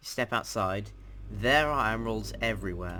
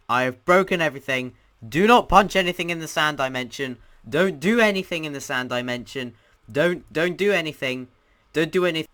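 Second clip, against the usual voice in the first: high, loud, repeated urgent warning; panicked warning; 5 semitones higher, 8 dB louder than usual. Real, not acted. Player warning viewers off the sand dimension, panicked shouting.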